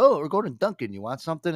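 imitated coworker, pitched high; chirpy coworker offer. Coworkers offering him a Dunkin' run, high imitated voice.

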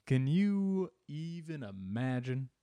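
slow, drawn-out mock wonder; hammy, slow put-on voice. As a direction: stretch every word in a put-on voice. Joking in the put-on voice.

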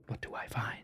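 hushed whisper to self. Real, not acted. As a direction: whisper it in anticipation.

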